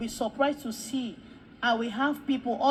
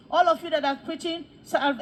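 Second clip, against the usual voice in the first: raised, louder address to a crowd; commanding call; 4 semitones higher, 5 dB louder than usual. Retold or imitated. Man singling out preachers in the crowd, commanding call.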